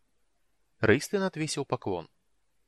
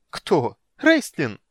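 much higher, louder disbelief; incredulous; 6 semitones higher, 10 dB louder, much slower than usual. Acted. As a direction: scoff in amazed disbelief. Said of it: "расхохоталась, изумление и испуг".

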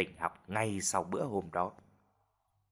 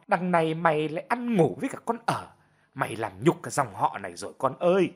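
nagging tirade; 3 semitones higher than usual. Acted. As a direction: rail at the son without letting up. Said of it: "Bà vẫn tiếp tục đay nghiến". (mẹ đay nghiến con trai, giọng cao, gay gắt)

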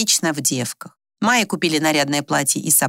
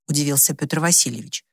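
plain reading voice

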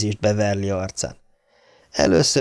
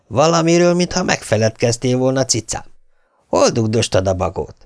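distant radio voice; 3 semitones higher than usual. Acted. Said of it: "Hangja, mintha egy távoli ... rádióból szólalt volna meg".

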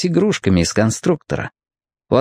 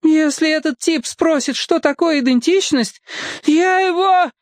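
groaning. A narrator's reading. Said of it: "застонала фройлен Дуля".

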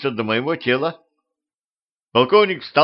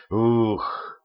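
exhaling; 3 dB quieter than usual. Acted. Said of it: "выдохнул он".

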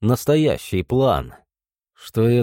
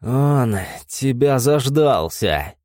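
spat out with blood; slower than usual. Acted. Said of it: "с кровью выплюнул Том".

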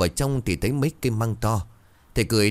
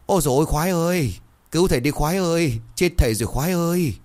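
high, acted wail for help; pitiful wailing; 9 semitones higher, faster than usual. A narrator's reading. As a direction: cry out in distress, pitch way up. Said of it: "thầy rú lên thảm thiết". (rú lên thảm thiết, giọng cao vút)

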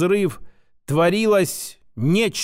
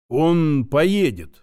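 uncertain guess; much slower than usual. Acted. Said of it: "неуверенно предположила Нелла".

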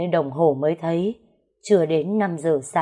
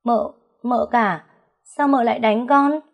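a frightened maid who just got slapped, stuttering; stammering in shock; 6 semitones higher, 3 dB louder than usual. Acted. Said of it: "lắp bắp nói". (lắp bắp, hoảng hốt, giọng cao và chậm)

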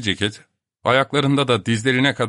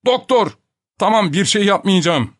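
high, loud desperate begging; frightened pleading; 10 semitones higher, 5 dB louder than usual. A narrator's reading. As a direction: plead while being choked. Being strangled, begging. (boğulurken yalvarma)

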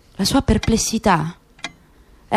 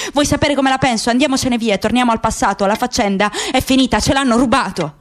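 bitter laugh. Acted. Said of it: "Said scoppiò a ridere ... amara".

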